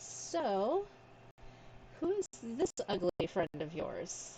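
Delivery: mocking, needling, belittling taunting tone. Leaning on a companion in the game, taunting: taunting in character. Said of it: "lean on him and be like".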